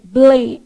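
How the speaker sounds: Blém articulado devagar com lábios e língua; demo syllable. Shown as a demonstration. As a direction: pronunciar Blém mostrando cada som. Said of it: "O que que é L?". (Blém bem articulado)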